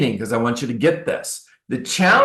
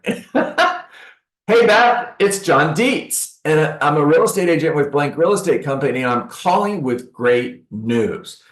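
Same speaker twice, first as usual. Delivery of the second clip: bright, higher-pitched, slow friendly greeting; friendly energy; 4 semitones higher than usual. Shown as a demonstration. Agent calling a homeowner like a friend, upbeat. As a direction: greet her like an old friend with good news. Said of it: "I call you with that energy".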